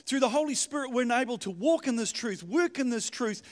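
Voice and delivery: ordinary talk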